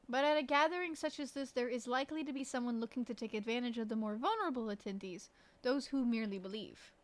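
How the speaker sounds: lightly put-on French accent; French-accented character reading. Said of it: "try to imitate their accent".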